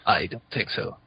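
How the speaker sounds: flat computer voice; robot voice. Real, not acted. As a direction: say it like a monotone machine. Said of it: "You sound like a computer".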